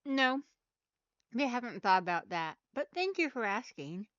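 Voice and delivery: talking while chewing gum; mouth full. Real, not acted. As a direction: speak around bubble gum. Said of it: "I have stuff in my mouth right now".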